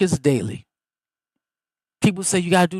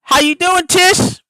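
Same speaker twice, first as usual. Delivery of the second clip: higher, louder happy hello; delighted high hello; excited greeting; 13 semitones higher, 9 dB louder than usual. Real, not acted. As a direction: call out warmly to family. Greeting daughter-in-law on call.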